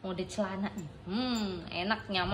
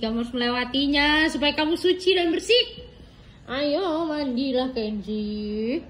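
mock ceremonial; 3 semitones higher, 5 dB louder than usual. Parent announces bath ceremony.

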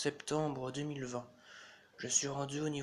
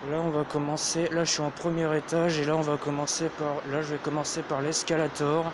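through a face mask; 6 dB louder than usual. Real, not acted. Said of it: "Je parle avec un masque".

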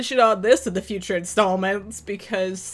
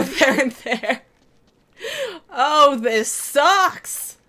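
exasperated panic; 6 semitones higher, 6 dB louder, much slower than usual. Real, not acted. Overrun by enemies.

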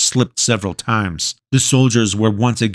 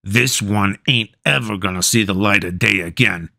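gruff soldier voice. Acted. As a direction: say it like a jailer. Soldier's grim remark.

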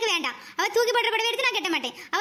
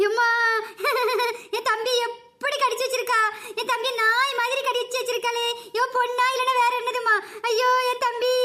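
wailing lament. Acted. Elder sister wails over her bitten brother. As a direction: cry out over the bite marks.

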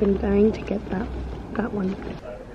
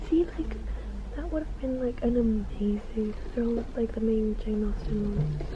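whispering; 7 dB quieter than usual. Real, not acted. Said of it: "I always feel like I have to whisper".

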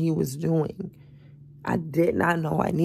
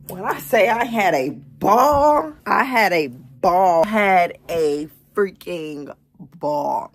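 loud, emphatic party boast; excited; 7 dB louder than usual. Real, not acted. Vlogger loudly hypes the ball she had. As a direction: hype up the night.

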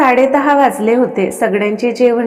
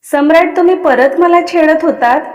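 irritated protest; 5 semitones higher, 4 dB louder than usual. Acted. Angry wife confronts him.

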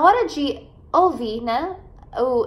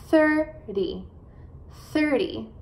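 THIR-dy, teacher's careful model of THIRTY; stress on first syllable; slower than usual. Shown as a demonstration. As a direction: punch the start of THIRTY. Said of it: "enfatizar as sílabas no começo da palavra".

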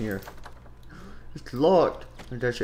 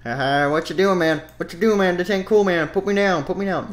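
shouting protest; 6 semitones higher, 8 dB louder than usual. Acted. Character protests being picked up.

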